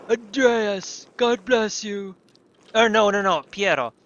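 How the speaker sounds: hammed-up Italian accent, high and loud; a mock Italian monk blessing; vague Italian accent. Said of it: "Sounds vaguely Italian".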